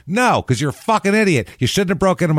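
high-pitched exasperated scolding; arguing. Acted. Daughter telling off the man who broke in, indignant. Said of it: "There would be an argument about".

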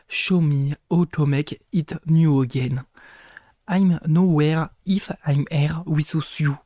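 French-accented English. Shown as a demonstration. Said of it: "ne jugez pas mon accent".

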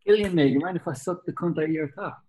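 put-on thick Dundee accent, quoted with a laugh. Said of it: "In a, in a proper thick Dundee accent".

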